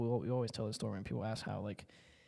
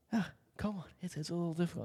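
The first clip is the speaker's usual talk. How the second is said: much higher, strained complaint; whiny protest; 6 semitones higher, faster than usual. Retold or imitated. Son protesting to his dad, high whiny complaint. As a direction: whine back defensively.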